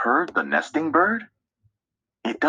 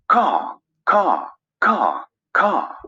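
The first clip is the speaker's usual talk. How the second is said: cawing like a crow, a bit louder; 3 semitones higher, 4 dB louder, slower than usual. Acted. Narrator voicing a crow calling to the others, loud caw. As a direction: call it out like a crow. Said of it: "Crow calls out".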